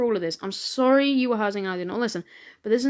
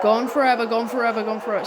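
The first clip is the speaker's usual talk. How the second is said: demonic voice. Acted. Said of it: "that demonic voice".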